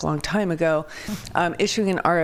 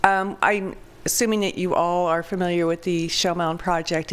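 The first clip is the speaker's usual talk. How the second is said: raspy voice. Real, not acted. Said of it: "I apologize for my raspy voice".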